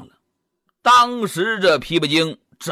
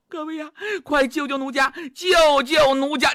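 pleading damsel; 5 semitones higher than usual. Acted. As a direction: wail for help like a helpless young woman. Spirit pleads again.

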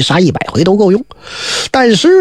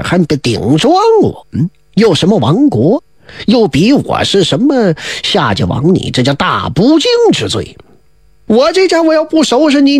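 raised, ranting royal fury; a furious king shouting down his minister; enraged king; 2 semitones higher than usual. Acted. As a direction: tear into the minister like an outraged emperor. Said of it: "勃然大怒".

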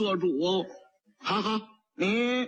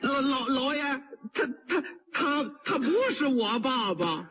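stammering panic; 3 semitones higher than usual. Acted. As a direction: stammer out a denial in fear. 卖砂锅的挨打前辩解. (吓得结巴地辩解)

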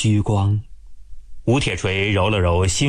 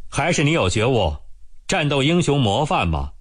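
讽刺; 4 semitones higher than usual. Acted. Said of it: "明显的讽刺味道".

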